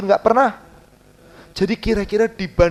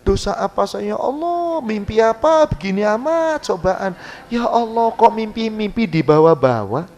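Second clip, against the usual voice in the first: mock complaining. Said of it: "jangan ditambahin".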